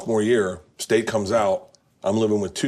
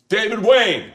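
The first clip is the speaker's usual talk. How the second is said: calling out the name, much higher; loud call; 11 semitones higher, 4 dB louder, slower than usual. Retold or imitated. Fan spotting his favorite director at a party, calling out. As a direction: hail him across the room. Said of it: "I'm loud".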